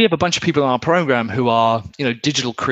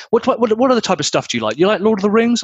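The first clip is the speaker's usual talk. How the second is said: eager fan; 9 semitones higher, faster than usual. Retold or imitated. Eager fan pitching more shows.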